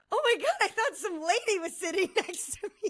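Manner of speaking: put-on giggly laughing speech. Retelling laughing at oneself after a scare: retelling own laughing words. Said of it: "I started laughing at myself".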